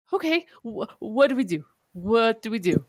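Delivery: high, hurried panicky questions; a touch of mock panic; panicked. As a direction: fluster like she's lost her footing. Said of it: "little, little panicked".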